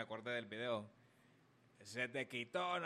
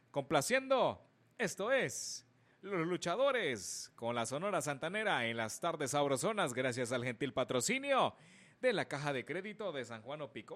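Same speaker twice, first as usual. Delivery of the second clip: radio announcer; 5 dB louder than usual. Acted. Radio DJ song intro.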